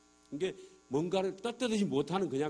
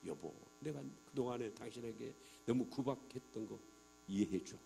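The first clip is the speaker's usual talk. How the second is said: soft, gentle apology to his wife; a husband softly asking his wife to forgive him; sincere apology; 5 semitones lower, 8 dB quieter than usual. Retold or imitated. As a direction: say sorry tenderly and quietly. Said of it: "진심으로".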